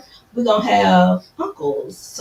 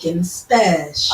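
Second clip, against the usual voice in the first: Jamaican special said in a light Jamaican accent; 4 semitones lower than usual. Shown as a demonstration. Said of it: "You gotta say it with the accent".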